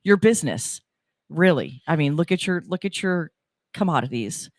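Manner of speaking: announcer promo voice; radio ad read. Acted. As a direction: sell it like a local radio spot. Reads station promo and sponsor ad.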